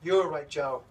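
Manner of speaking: loud mock yell, dropping in pitch at the end; retold scream. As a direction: imitate someone hollering across a restaurant. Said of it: "screams across the freaking restaurant".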